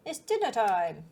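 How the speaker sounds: loud cheerful dinner call; enthusiastic call. Acted. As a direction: sing it out like a happy chef. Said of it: "said it as enthusiastically".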